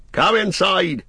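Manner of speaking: high-pitched call; shouted order. A narrator's reading. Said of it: "he shouted".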